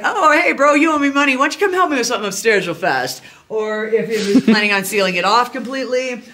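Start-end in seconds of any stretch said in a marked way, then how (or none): 0.0-3.2 higher, louder fake-friendly bro luring someone upstairs; imitating a bro with a debt to settle; mock bro voice. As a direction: play the shady buddy who wants his money, quick and chummy. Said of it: "or if it was like".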